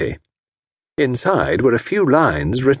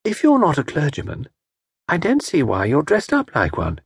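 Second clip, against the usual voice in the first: puzzled; 5 semitones higher than usual. Acted. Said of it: "she puzzled".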